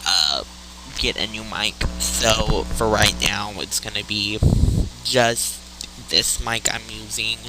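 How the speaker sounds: recorded on a tinny cheap microphone; cheap usb mic. Real, not acted. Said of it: "Sorry about my, uh, mic quality".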